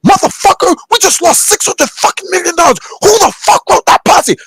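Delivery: high-pitched mock outburst, cursing at the room; furious exec rant. Executive yelling at his board over lost money, high mock fury. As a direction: play an enraged boss losing millions. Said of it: "That's how they talk".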